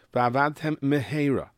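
slow "va'avadtem mehera" with both m's distinct; separated words. Shown as a demonstration. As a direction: hold apart the final and first M in "va'avadtem mehera". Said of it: "split second to separate the words".

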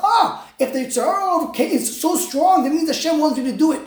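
half-shouted, mock realization. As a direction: exclaim it like a sudden discovery. Zimri's wrong reckoning, acted out.

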